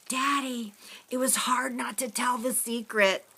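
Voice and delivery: put-on a small girl confessing to her dad; little girl voice. A narrator's reading.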